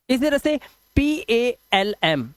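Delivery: "पी ए एल एम" spelled out slowly, letter by letter; spelling aloud. Shown as a demonstration. Teacher spells a word for students, slowly. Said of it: "पालम नहीं पढ़ते".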